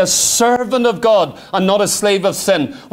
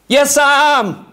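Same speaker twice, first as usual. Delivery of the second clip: slow, firm, emphatic answer; firm reply; 5 semitones higher, slower than usual. Acted. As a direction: plant each word, slowly and certainly. Answering the flesh firmly.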